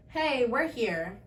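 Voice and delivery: slow, deadpan we're here; slow flat announcement. Retold or imitated. Mom announcing arrival, slow deadpan. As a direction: drawl it out matter-of-factly. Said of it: "And she was like".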